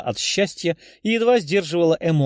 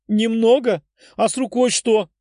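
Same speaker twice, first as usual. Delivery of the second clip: much higher, louder indignant disbelief; shocked exclamation; 7 semitones higher, 3 dB louder than usual. A narrator's reading. Tefa sees his injured arm and cries out in disbelief. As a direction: throw his word back at him in shock. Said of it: "вытерев слёзы, воскликнула она".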